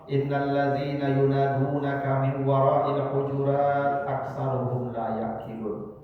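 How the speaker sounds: slow, even recitation of a verse; Quran recitation. Acted. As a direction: recite the verse slowly and evenly. (membaca ayat dengan pelan)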